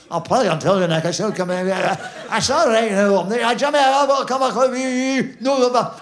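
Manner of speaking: rough, loud Glaswegian shipyard voice; Glasgow accent. Retold or imitated. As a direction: mimic a Clydebank worker, fast and loud. Imitating Clydebank workmates' talk.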